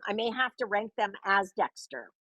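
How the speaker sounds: whispered aside; whispering. Real, not acted. Aside before voicing Dexter.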